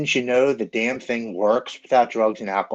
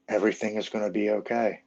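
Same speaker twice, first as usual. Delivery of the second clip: gently soothing, understated reassurance; quiet, tender reassurance; warm, calming; 4 dB quieter than usual. Retold or imitated. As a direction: retell a comforting inner voice, calmly and simply. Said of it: "I hear this warm, calming woman's voice".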